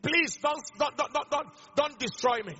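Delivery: mock pleading of a demon, stammered; hurried, repeated plea, mildly acted; begging. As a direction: act out a demon begging for mercy. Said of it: "and was begging him".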